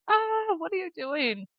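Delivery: high, slow, drawn-out ah of a fed-up driver; mock driver outrage. Other drivers yelling at the newcomer, high and slow mock outrage. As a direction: play a stunned driver crying out at the wrong-way car. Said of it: "all these cars are like".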